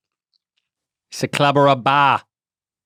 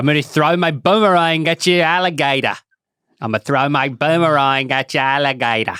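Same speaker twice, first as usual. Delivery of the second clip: mock Australian accent. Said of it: "Do it for me one time".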